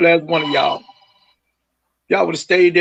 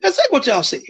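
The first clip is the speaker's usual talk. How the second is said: raised, pitched-up accusing voice, hammering y'all; angry accusation; 6 semitones higher than usual. Real, not acted. Father accusing the families of lying, angry and raised. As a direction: call them out to their faces.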